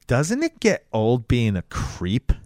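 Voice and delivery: slow, drawn-out taunting question; mock bitchy. Girl comes over to put down the creep, bitchy. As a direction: needle him slowly, acting out the mean girl. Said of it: "she's just a mega bitch".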